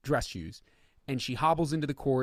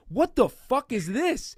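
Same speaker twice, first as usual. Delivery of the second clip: much higher, louder incredulous outburst; disbelief; 9 semitones higher, 4 dB louder than usual. Real, not acted. Baffled at the judge's switch, high incredulous disbelief. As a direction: sound baffled and amazed.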